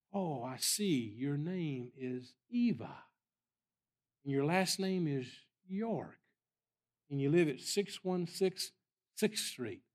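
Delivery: very slow, stretched-out prophetic reading; imitated seer, long held words with pauses; seeing a vision. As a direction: draw each detail out as it appears.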